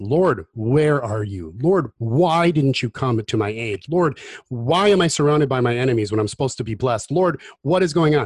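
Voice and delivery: play-acted, loud, furious, angry shouting. Preaching on the Psalms, voicing David's complaints to God, acting out an angry yell. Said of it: "He yells".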